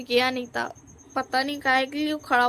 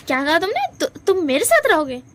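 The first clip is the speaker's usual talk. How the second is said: shocked disbelief; 4 semitones higher, 5 dB louder than usual. Acted. Wing shocked by Lanjan's words.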